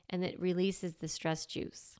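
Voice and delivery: soft, breathy whisper. Real, not acted. Telling moms how stress fades, in a whisper. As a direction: whisper it like a secret.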